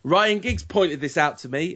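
half-hearted impression of a manager addressing fans; Louis van Gaal. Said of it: "I can't do the accent".

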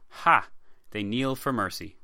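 a lightly voiced mocking king, sharp laugh on Ha; scoffing king. Edward mocking the kneeling Scots, scornful laugh. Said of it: "Edward the Second was reported to have said".

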